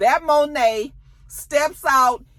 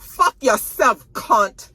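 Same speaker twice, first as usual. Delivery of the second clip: slow, louder, drawn-out insult; retold cursing out; 6 dB louder, much slower than usual. Woman curses out the man holding her, retold insult. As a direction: curse them out, stretching each word.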